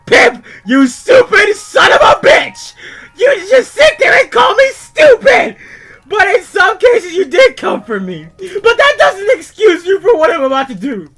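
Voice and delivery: screamed, high-pitched accusations, dragged out word by word; furious rant. Acted. Freddy raging at his barnyard friends in his letter, furious screaming. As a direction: scream it at the friends who wronged you.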